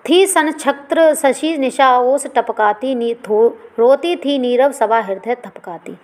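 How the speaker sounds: slow, drawn-out verse; poem recitation. Acted. Teacher reciting the night scene verse, slow. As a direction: stretch the verse line out slowly.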